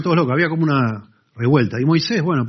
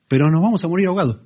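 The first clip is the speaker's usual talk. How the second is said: panicked crowd; 7 semitones higher, 4 dB louder, faster than usual. Retold or imitated. People panic at the sea.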